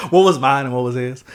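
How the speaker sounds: mock question through a laugh; amused, laughter still in the voice; laughing joke. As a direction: keep the joke going while laughing. Continuing the joke amid laughter.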